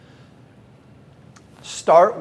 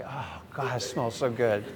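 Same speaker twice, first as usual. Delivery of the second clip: mock candle bliss; 4 semitones lower, 8 dB quieter, slower than usual. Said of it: "I make weird noise like".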